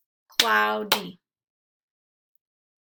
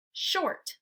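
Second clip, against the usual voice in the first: bright reveal; 8 semitones higher than usual. Shown as a demonstration. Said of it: "Without est, the word is".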